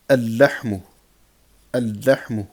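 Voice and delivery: loud "al-lahmu" with a long double l; doubled first letter. Shown as a demonstration. Teacher drilling sun-letter words, doubled l. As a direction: hold the l in "al-lahmu". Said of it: "on va doubler".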